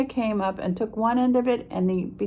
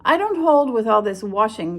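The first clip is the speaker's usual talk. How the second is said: grumbled; 5 dB louder than usual. Acted. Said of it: "grumbled Eeyore".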